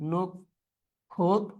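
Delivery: নক্ষত্র very slowly as nok, khot, tro; syllable by syllable. Shown as a demonstration. Teacher dictating a spelling to the class, syllable by syllable. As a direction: break নক্ষত্র into three spaced beats.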